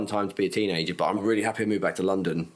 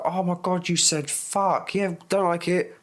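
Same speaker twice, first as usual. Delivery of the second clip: mock offended prude; 9 semitones higher, slower than usual. Mocking offended people.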